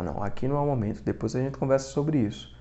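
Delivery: softly voiced princely put-down; composed haughtiness. Prince refusing to argue in front of everyone, quietly aloof. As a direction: decline quietly, with understated superiority. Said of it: "mostrou essa altivez".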